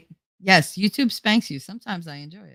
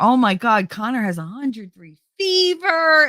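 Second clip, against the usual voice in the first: fake alarmed mom; 6 semitones higher than usual. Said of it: "ten minutes before".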